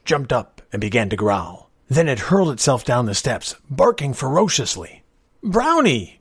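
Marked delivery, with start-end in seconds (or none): 5.4-6.2 high, loud shout of a name. A narrator's reading. Young man to his charging dog, shouting. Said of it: "George shouted".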